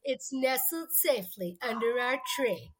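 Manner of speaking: tree said slowly in Phil Hartman's way; slow, savoured "tree" as in the movie; "tree" drawn out like the Jingle All the Way line; special tree. Retold or imitated. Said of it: "the way they say it".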